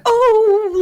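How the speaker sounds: imitating a dainty posh yell, pitched very high; high, drawn-out mock "oh"; posh British yell. Quoting the actress on how she yells, posh mock yell. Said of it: "when she yells, she'd be like".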